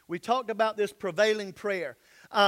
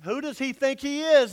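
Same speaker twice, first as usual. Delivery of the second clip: raised, indignant question, a bit louder; offended church folk muttering who he thinks he is; indignant huff; 4 semitones higher, 5 dB louder than usual. Retold or imitated. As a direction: scoff at him like the offended priests. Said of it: "That's a good way to say it".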